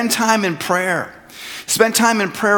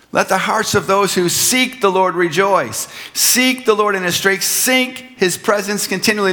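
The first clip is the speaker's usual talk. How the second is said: raised pitch, leaning on each "seek"; stress on "seek"; 4 semitones higher than usual. Real, not acted. Pastor reading scripture to the congregation, stressing each "seek". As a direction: hit "seek" firmly every time it comes. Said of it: "Notice that emphasis on the word seek".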